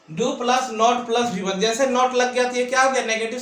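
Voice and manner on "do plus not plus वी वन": very slow, words spaced out; slow formula. Shown as a demonstration. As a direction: repeat the formula for dictation. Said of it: "teacher repeats formula". (धीरे-धीरे दोहराना)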